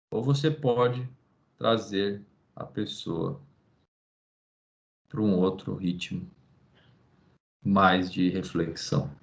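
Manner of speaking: slow right down to invite reflection; slow reflective pace. Shown as a demonstration. (ritmo lento e grave, mais baixo, de reflexão)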